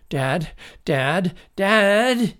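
yelling. A narrator's reading. Boy yelling for his dad across the yard, building yell. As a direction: call out urgently, each one bigger. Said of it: "he yelled as he ran".

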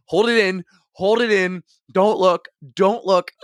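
pleading with his own body not to react; frantic self-talk. Retold or imitated. Friend coaching himself.

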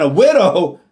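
a doubting, surprised "A widow?" falling at the end; shocked echo of the word; incredulous. Retold or imitated. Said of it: "the thought that entered into his mind".

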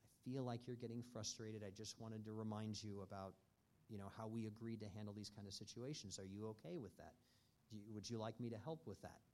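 gentle. Retold or imitated. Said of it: "And very gently, with respect".

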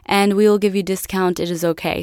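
put-on light Italian-accented English; reassuring offer with a hint of Italian accent; imitated Italian father. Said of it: "this big Italian guy".

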